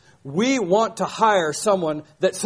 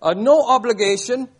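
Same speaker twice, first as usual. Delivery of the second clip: louder and higher, pushing past his excuse; hearty Southern insistence; 4 semitones higher, 4 dB louder than usual. Retold or imitated. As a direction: boom it out like a pushy country preacher. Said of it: "He said".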